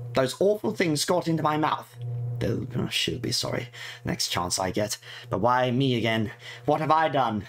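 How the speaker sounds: lightly voiced fretful girl reading her diary. Player voicing the game character's diary entries, lightly fretful. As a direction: read it as a worried schoolgirl's diary, lightly put on.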